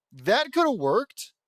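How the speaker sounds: loud, high, slow protest; exasperated insistence. Real, not acted. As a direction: stretch it out, insisting at full voice. Exasperated at the failed joke.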